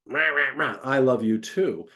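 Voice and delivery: hammed-up snarl, then a grudging "I love you too"; mock angry rah, rah, rah; mock attack. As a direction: growl it like a play attack. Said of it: "when somebody's attacking them".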